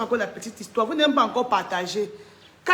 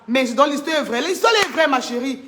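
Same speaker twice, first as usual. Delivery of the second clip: hurler; 4 dB louder than usual. Real, not acted. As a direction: raise your voice to insist it's true. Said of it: "Pas besoin de hurler comme ça". (parler très fort en insistant)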